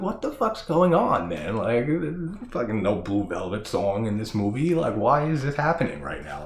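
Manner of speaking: high mock panic; freaked-out disbelief. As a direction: replay being spooked by the screen. Retold freaked-out reaction.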